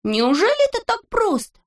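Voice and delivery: high, amazed question; surprised. A narrator's reading. Neznaika asks in high surprise. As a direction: Neznaika can't believe it's that easy. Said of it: "удивился Незнайка".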